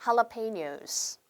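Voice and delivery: jalapenos very slowly, "ha-la-pe-nyos" with an h. Shown as a demonstration. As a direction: spell out jalapenos syllable by syllable. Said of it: "따라할게요". (jalapenos를 "할라페뇨스"로 아주 천천히)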